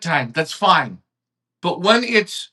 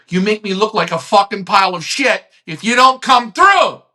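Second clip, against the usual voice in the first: heated, raised shout on shit; worked-up rant; 3 semitones lower than usual. Real, not acted. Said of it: "Maybe I'm a little worked up".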